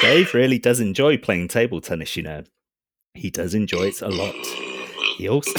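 calm computer voice; robot voice. Acted. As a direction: speak like a ship AI. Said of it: "My robot voice?".

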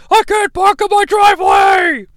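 exasperated homeowner yell; mock frustrated yell. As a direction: whine it out like a fed-up dad. Charlie frustrated at blocked driveway.

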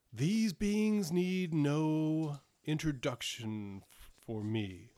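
slow, weighty royal pronouncement; a king who knows them at once; giant monarch. Acted. Monarch recognising the party, slow and grave.

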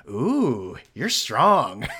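hammed-up swooning, drawn-out ooh; mock admiring housewife. Housewife admiring an athlete at the gym, mock swooning. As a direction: coo like a smitten fan in a cheesy ad. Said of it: "all the white housewives".

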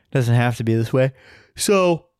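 half yawn through the words. Real, not acted. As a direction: speak through a stifled yawn. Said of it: "half yawn that I just had".

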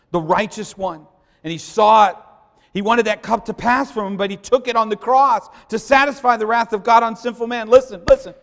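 loud, high preaching voice; full-force preaching. Acted. Pastor crying out to the congregation about the cup of wrath, full-force preaching.

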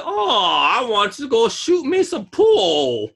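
high, hammed-up Southern Black drawl; mock Southern Black accent. Explaining pool to co-host, hammed-up Southern Black accent. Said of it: "when a black person says pool, they say".

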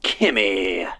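pumped radio host intro. Acted. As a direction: sell the show to listeners. DJ welcome back.

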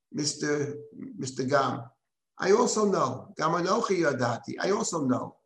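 lightly mocking retort, lifted on "I also know"; a touch of mockery in the reply. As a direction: gently needle him as God answering back. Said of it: "there's a mocking in the response".

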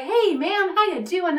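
high, sing-song mock greeting; groovy guard. Guard greeting Veronica at the gate, high sing-song. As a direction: greet her like a cheerful, laid-back gate guard. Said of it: "he was like".

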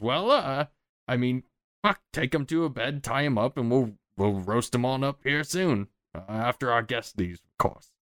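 a hint of a scheming goblin. Goblin guard ordering the prisoner roasted, lightly high. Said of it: "He says".

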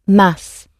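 "mas" with the pitch going down; falling sentence ending. Shown as a demonstration. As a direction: let "mas" drop as a European sentence ending would. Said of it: "tending to go down at the end".

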